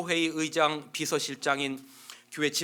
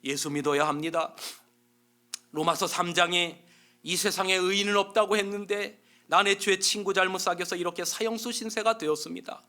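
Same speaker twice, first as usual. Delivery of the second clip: polite; 3 semitones higher than usual. Acted. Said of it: "나이 든 사람에겐 또 정중하게 해요".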